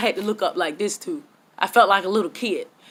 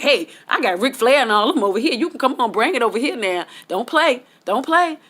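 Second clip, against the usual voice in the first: cocky; 5 semitones higher than usual. Retold or imitated. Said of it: "I'm feeling cocky now".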